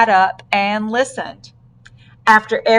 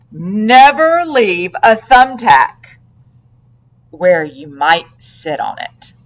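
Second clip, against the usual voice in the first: slow, louder lecturing; slow emphatic tip; 5 dB louder, slower than usual. Acted. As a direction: drag out the warning. Officer giving safety tip.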